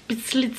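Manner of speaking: "Beat Lit" tried as two clipped English syllables, no vowel between; attempted English pronunciation. Shown as a demonstration. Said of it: "j'arrive pas". (« Beat Lit » tenté à l'anglaise, sans e final)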